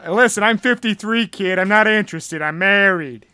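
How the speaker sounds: lightly voiced coach; a hint of big coach accent. Guard turning down an invitation, light coach accent. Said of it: "He's like".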